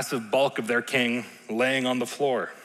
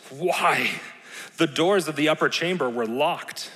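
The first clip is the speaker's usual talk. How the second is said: mock surprise; 3 semitones higher than usual. Shown as a demonstration. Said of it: "with a little bit more of that emphasis".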